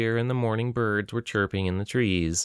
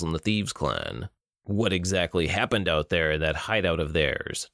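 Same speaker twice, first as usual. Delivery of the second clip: menacing villain; 3 semitones lower than usual. Acted. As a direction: savor each taunt like a cruel captor. Villain Bruto speaks.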